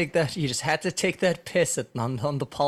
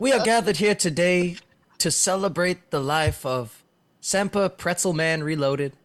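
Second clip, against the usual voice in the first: eulogy breaking into laughter; faltering tender eulogy; 2 semitones higher, 3 dB louder than usual. Pretend. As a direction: try to stay solemn but crack up. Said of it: "Do you wanna try that again?".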